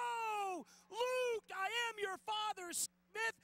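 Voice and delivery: Darth Vader line. Acted. Darth Vader quote after goal.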